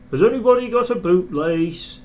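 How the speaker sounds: guard shouting to the passengers; calling out. Acted. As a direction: call out to everyone on the platform. Guard calls to all passengers.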